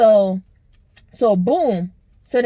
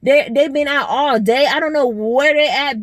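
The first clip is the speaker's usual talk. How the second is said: lightly raised mock of the friend; 3 semitones higher than usual. Mocking the friend who gossips in the group chat, lightly pitched up. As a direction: mimic her gossip, slightly up. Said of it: "She in a group chat".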